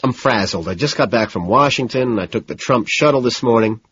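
frazzled, running on without a break; in a rush. Acted. Frazzled man telling his date about his morning, rushed. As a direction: spill it out in one nervous rush. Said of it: "unable to make eye contact, all in a rush".

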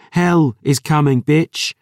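loud, high and fierce; fierce vow. Acted. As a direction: spit it out as a threat. Dior vows vengeance.

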